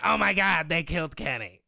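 cartoon catchphrase impression; Cartman. Capping a listener shout-out, in a Cartman impression. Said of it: "Uh, Cartman".

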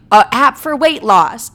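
loud, high, drawn-out reveal; outraged disbelief. Real, not acted. Revealing the weight loss app, outraged.

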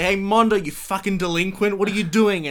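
put-on loud, high exasperated yell at the kid in the back; teacher yelling at student. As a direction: shout him down from the blackboard. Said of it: "you sigh, and you say".

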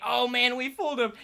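loud, high, laughing brag; gloating laugh. Retold or imitated. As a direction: crow over the trick like you won. Friend gloating, retold again.

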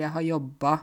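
JOBBA with a broad final a; dialect a-ending. Shown as a demonstration. Teacher giving an example verb, dialect a-ending on JOBBA. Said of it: "så er det mye a-endinger på verba".

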